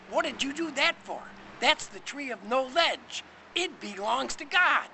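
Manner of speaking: high, loud, indignant rebuke; indignant scolding. Acted. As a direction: scold them loudly, pitched high. Acted scolding after a slap.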